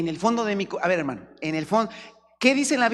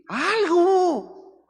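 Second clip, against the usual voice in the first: high punched exclamation; emphatic cry; 12 semitones higher, 4 dB louder than usual. Real, not acted. Preacher exclaims to the congregation, high and punched. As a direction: fling the word at them.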